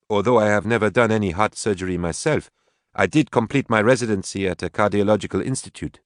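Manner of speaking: composed woman doctor. Acted. Woman offers to assist the surgeon, lightly voiced, composed. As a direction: offer your credentials with composure.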